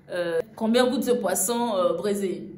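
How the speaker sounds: lent et appliqué, mot à mot; slow careful asking. Retold or imitated. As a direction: demander lentement avec soin. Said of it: "je dis". (question lente et appliquée à la vendeuse)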